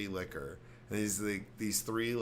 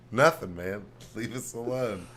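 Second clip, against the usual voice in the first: mock teen protest; 8 dB louder than usual. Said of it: "his responses".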